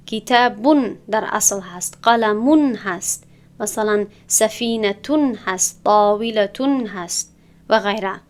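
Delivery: slow, clearly sounded -un endings: کتابون، قلمون، سفینتون، طاولتون; teacher spells out each نون ending slowly; tanwin endings stressed. Shown as a demonstration. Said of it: "یعنی که با ضمتین گفتم". (تلفظ آهسته و واضح تنوین در کتابون و قلمون)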